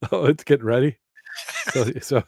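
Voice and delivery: high laughing yelp; laughing shout. Real, not acted. Hook in the curtain joke.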